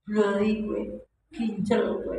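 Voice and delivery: dismissive retort. Acted. Wife snapping back.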